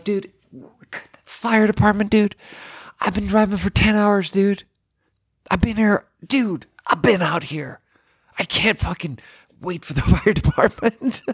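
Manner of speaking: high exasperated whine, laughing at the absurdity; high panicked whine. Retold or imitated. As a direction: wail it like you're losing your mind. Retold freakout at the guy.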